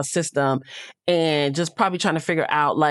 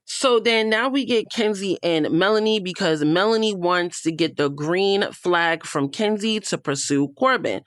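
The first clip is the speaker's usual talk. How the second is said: usual speaking voice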